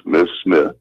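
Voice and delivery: low, steady, respectful "Miss Smith"; low calm respect, no fear; respectful, calm address. Retold or imitated. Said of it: "She heard a respect in my voice".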